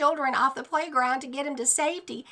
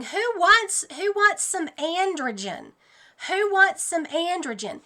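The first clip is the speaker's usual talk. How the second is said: high, cheery sales pitch; mock-friendly doctor offering injections; doctors hawking shots; 6 semitones higher than usual. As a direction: peddle it like a carnival barker. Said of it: "walk around going".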